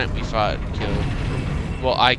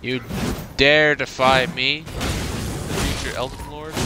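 dark lord; 3 semitones higher than usual. Pretend. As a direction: boom it out like an evil overlord. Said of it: "I like role-playing in these games".

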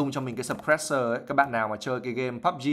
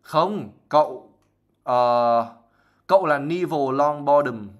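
louder, slow, sharp and firm; 6 dB louder, slower than usual. Acted. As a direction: cut him off sharply. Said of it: "một cái giọng nó rất là đanh". (giọng đanh, to, chậm, át lời người khác)

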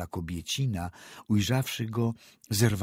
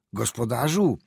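called in fear; 4 semitones higher, 6 dB louder than usual. A narrator's reading. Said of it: "zawołał z trwogą".

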